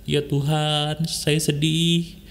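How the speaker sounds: slow, level mock-weeping plea; mildly imitated crying, drawn out; demonstrated tearful prayer. Shown as a demonstration. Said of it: "nangis gitu, keluarin air mata".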